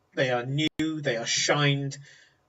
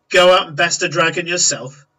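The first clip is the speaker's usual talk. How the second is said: mocking laugh; 3 semitones higher, 8 dB louder than usual. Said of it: "He goes".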